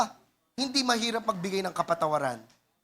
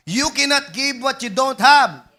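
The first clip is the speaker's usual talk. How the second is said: said again louder, landing hard on "have"; preacher repeats the line to the congregation, louder and punchier; louder emphatic repeat; 3 semitones higher, 6 dB louder than usual. Shown as a demonstration. Louder repeat with a falling "have" for emphasis. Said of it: "Ulitin ko".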